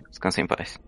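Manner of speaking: soft whispered blessing; whispered prayer. Acted. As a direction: whisper a blessing over the dead. Blesses the dead creature.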